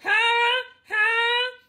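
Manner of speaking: high loud sung growl ha; a singer's growl. Shown as a demonstration. Teacher imitates a singer's growl, high and loud. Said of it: "kind of a singer".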